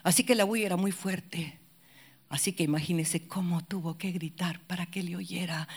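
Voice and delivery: usual speaking voice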